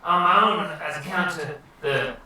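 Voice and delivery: rambling surfer-dude voice; Finding Nemo turtle. Acted. Wizard explains his limits to guests, dude voice. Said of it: "You should be the turtle from".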